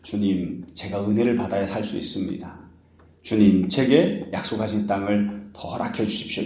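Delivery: soft, low, deferential pleading; humble plea. Retold or imitated. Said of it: "가난한 마음으로 은혜를 구하고 겸손한 태도를".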